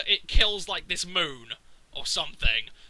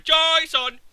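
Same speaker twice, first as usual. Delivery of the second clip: higher and louder, hammed-up yell of "Jason!"; mock Isaac yelling; 9 semitones higher, 7 dB louder than usual. Picturing Isaac yelling the name, a hammed-up yell. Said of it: "just picture Isaac going".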